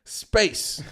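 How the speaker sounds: drawn out, pitched high; slow dramatic emphasis. Retold or imitated. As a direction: stretch it out for comic effect. Dramatic build on tight space.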